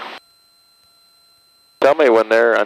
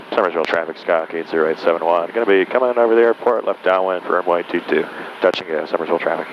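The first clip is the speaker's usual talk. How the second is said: pilot voice; 2 semitones lower than usual. Real, not acted. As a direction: call it in like on the radio. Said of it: "Very pilot's voice".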